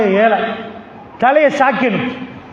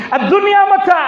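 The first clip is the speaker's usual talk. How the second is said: hadith proclaimed; 7 semitones higher than usual. Acted. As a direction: proclaim it to the hall like a preacher. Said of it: "நபிகள் நாயகம் ... சொல்றாங்க".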